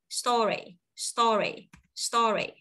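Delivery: "story" with the R carried into the last syllable; linked R. Shown as a demonstration. Teacher drilling learners, "story" with the R joined onward. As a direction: link the R straight into "ry" in each "story". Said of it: "Nối âm R qua đến".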